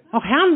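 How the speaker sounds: Och, Herm in broad local dialect; Och, Herm as a regional sigh of regret; Eschweiler dialect. Shown as a demonstration. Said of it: "sagt man hier so".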